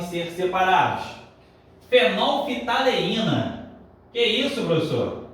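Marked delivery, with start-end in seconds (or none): 4.1-5.2 mock-startled student, starting high and dropping; lightly voiced student objecting to the teacher; protesting student. Student protests a hard word to professor, mock surprise.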